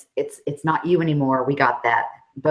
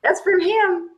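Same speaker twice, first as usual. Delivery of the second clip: laughing; 13 semitones higher than usual. Real, not acted. Laughing at the username.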